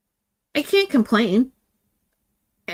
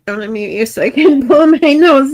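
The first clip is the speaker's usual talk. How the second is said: laughing through tears; 4 semitones higher, 6 dB louder than usual. Real, not acted. Blowing nose, laughing through tears.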